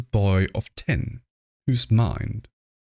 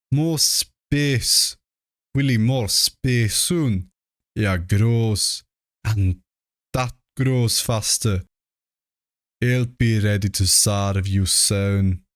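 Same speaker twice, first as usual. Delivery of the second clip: choked-out dying words; slower than usual. Acted. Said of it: "choke out a few words".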